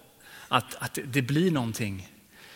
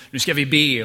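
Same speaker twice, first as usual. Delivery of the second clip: pastorns utrop; 7 dB louder than usual. Retold or imitated. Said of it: "så sa pastorn".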